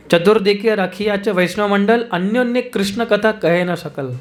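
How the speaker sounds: slow, measured verse chant; slow Bengali verse recitation; scripture recitation. Acted. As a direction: recite the verse slowly, reverently.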